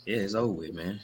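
lost voice, hoarse and strained; talking through a shot throat. Real, not acted. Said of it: "As you can hear, my voice gone".

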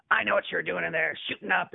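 loud and high, imitating a heckler; retold accusing yell. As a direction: imitate a man calling out an accusation. Quoting the man's accusations.

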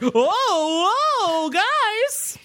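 아주 높게 겁먹은 버스 목소리로; talking bus. Pretend. Bus character voiced in recap.

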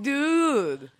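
high, loud, stretched-out mimicked "dude"; imitated exclamation. Co-host mimicking Igor's wrong word, high exclaimed imitation. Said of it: "But he's like".

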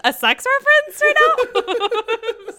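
high, loud mock-shocked question breaking into laughter; incredulous. Co-host retelling his reaction to the waitress's wink, incredulous. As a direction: act out the stunned reaction, tickled by it.

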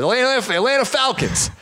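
flat correction. Retold or imitated. Coach answers, stunned by question.

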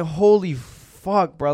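reliving the shock with slow emphasis; retold astonishment. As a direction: stretch it out, stunned. Retold shock, dog in Ohio.

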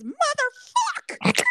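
drawn-out, high exasperated curse; frustrated curse. Retold or imitated. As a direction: stretch the curse out high and slow. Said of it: "all I say is".

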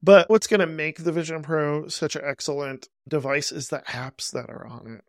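dry sarcastic pitch. Acted. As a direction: say it sarcastically, tongue in cheek. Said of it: "I'm gonna be sarcastic".

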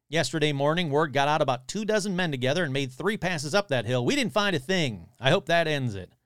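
lively read-aloud with quotes lightly acted; article read aloud. Podcaster reading a monster report to listeners, animated read-aloud. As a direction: read out an old news story with relish.

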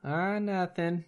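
put-on slow, high Minnesota accent. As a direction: play along in a Fargo-style Minnesota accent. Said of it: "That is Fargo".

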